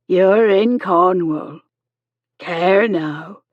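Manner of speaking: slow, careful explaining to a patient; Miss Chegwin, trying again. A narrator's reading. Nurse tells the shipwrecked man where he is, slowly. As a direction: spell it out slowly for a confused foreigner. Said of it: "Miss Chegwin tried again".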